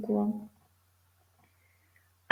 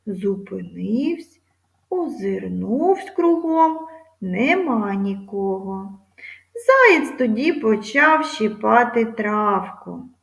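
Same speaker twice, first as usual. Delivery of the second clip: expressive fable reading for pupils; story narration. Acted. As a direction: read it like a fable to children. Teacher reads fable aloud. (виразне читання байки)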